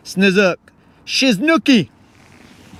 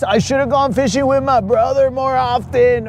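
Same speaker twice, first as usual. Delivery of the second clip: higher, hammed-up whine of regret; mock whiny mourner; 6 semitones higher than usual. Friend at the funeral, hammed-up weepy whine. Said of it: "be all like".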